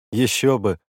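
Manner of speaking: громче, с радостью; радостно воскликнуть; обрадованно. Acted. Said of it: "обрадовался Саша". (обрадованно, громко)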